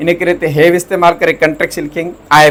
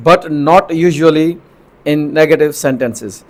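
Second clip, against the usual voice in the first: slow rule reading; much slower than usual. Shown as a demonstration. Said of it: "teacher reads rule slowly".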